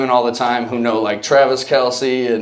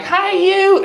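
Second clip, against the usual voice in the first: very high, nasal-free prissy white guy voice imitation; Chappelle white voice. Buddy mocking a white guy, high Chappelle white voice. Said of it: "the Dave Chappelle, like, white voice".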